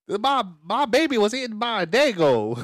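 high, loud, hammy Australian wail; mock Australian accent. Shown as a demonstration. Cohost trading silly accents, loud high mock Australian. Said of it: "That's Australian".

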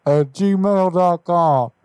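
folksy neighbourly caller, only slightly put on; Hank Hill voice. Prank caller greeting the car buyer, light Hank Hill voice. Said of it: "Yes, Hank Hill".

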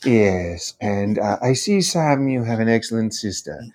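put-on measured, formal admiral voice with an accent; formal villain checking in politely; Grand Admiral Thrawn. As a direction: play a courteous Star Wars Imperial officer. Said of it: "he was doing a character from Star Wars".

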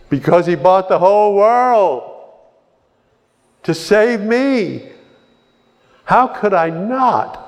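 high, rising preacher's cry, slowing on "to save me"; fervent preaching. Acted. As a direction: preach it with awe, building to the peak. Preaching climax.

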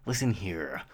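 a hushed, lightly voiced Giamatti menace; Paul Giamatti impression. Podcast host mimics Paul Giamatti's lawyer role, whispered. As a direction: lean in and whisper it like a threatening lawyer. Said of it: "I could do a pretty good Paul Giamatti".

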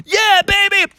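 very high, gleeful exclamation; thrilled. Acted. Froggy agreeing to start whistling, thrilled high whoop. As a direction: whoop it with delight.

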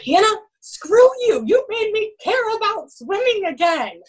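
high-pitched, drawn-out mock-crying protest; imitating tearful outburst. Crying senior swimmer blaming his coach, imitated tearful outburst. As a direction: wail it loudly like an upset athlete. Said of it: "and he's crying".

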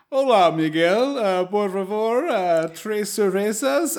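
slow, high, hammed-up Spanish order; show-off Spanish. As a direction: roll it out like a show-off regular. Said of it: "He's like".

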